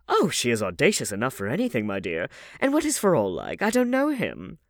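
put-on high, fussy old aristocrat; old lady voice. A narrator's reading. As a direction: chatter like a gossipy grand dame.

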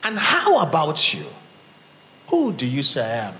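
pressing and serious, each word weighed; grave unsmiling question. Acted. Jesus demanding an answer from his disciples, grave and serious. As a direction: ask it without any smile. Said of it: "not a question ... asks people ... with a smile".

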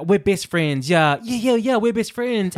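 acting out overeager best friends; awkward fake friendliness. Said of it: "had a very awkward moment".

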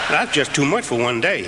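rueful laugh through the words. Real, not acted. Rueful laugh after grim memory.

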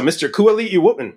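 put-on "Wootman" said with a botched accent; mispronounced name. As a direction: say "Wootman" with a WOOT first syllable in place of Whit. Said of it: "I don't do accents well".

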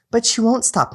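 man voicing Michelle, high; woman's voice. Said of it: "your girl voice".

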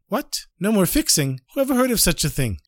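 high-pitched, disbelieving questions; mock incredulity. Fixer hearing that fixing is banned, mock incredulous. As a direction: react with acted astonishment. Fixer reacts to the king's decree.

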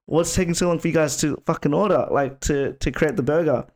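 high-pitched mock rant; angry customer. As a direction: act out an irate customer complaining, pitch up. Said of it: "he was just really angry".

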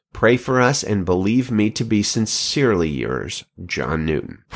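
measured, earnest letter reading; reading a letter aloud. Acted. Podcast host reads a pastor's letter to listeners, earnest reading. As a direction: read the old letter with gentle gravity.

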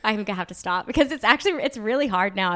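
a light put-on Australian accent. Actress doing her home accent on request, light Australian accent. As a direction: slip back into a broad Australian accent. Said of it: "switch to an Australian accent if you'd like".

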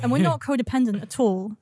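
sarcastic. Real, not acted. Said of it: "I said that very sarcastically".

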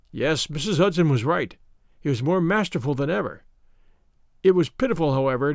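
ordinary delivery, nothing marked

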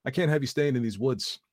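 put-on a landowner ordering a boy out of his woods; authoritative. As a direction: lay down the law. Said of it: "he declared authoritatively".

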